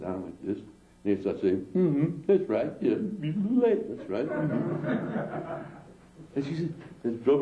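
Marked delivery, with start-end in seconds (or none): 1.7-5.6 mock agreeing aliens. Aliens nodding along.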